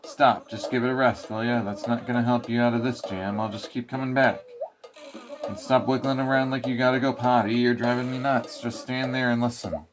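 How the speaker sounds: cranky mole ranting; lightly voiced ranting mole; grumpy mole lecturing. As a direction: scold the player like a fed-up mole. Mole lectures the player at length.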